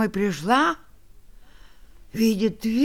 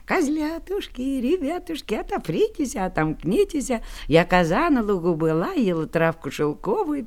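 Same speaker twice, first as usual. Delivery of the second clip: thin goat voice. Acted. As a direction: sing gently like the mother goat. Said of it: "Коза и запел тоненько".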